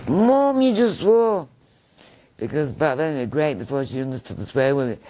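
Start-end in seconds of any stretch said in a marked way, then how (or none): 0.1-1.5 put-on high, loud kid's gotcha; excited child. Boy catching his mum swearing, excited squeal. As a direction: squeal it like a delighted kid.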